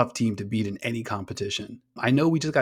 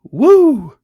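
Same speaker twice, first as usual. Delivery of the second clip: hammed-up French commentator whooping, much higher and louder; imitating French commentator; 11 semitones higher, 13 dB louder, much slower than usual. Podcaster mimics the French color commentator's goal call, a loud high whooping impression. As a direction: belt it out like a thrilled French commentator. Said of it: "my terrible French accent".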